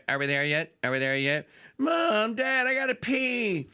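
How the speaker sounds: put-on pestering child. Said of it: "they get kids in the car".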